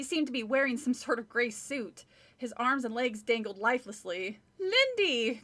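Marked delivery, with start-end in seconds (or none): 4.6-5.4 high, loud call of a name; a frightened cry across the yard. A narrator's reading. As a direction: call her sister's name in alarm. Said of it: "Chris called".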